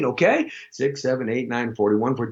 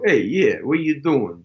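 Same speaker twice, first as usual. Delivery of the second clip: put-on New York accent; 2 semitones lower than usual. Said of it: "Or in New York".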